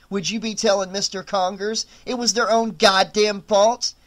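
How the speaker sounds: Aldous arguing. A narrator's reading. Aldous argues back.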